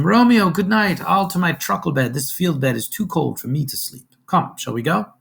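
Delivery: a goodbye called high into the dark; yelled goodbye. Acted. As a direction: call the goodnight out to a hidden friend. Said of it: "he yells to him".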